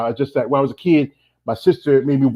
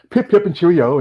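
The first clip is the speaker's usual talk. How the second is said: higher-pitched mock London English; Londoner accent; 4 semitones higher than usual. Host illustrating how Londoners talk, mock London accent. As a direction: toss it off like a stereotyped Londoner. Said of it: "like from Londoners".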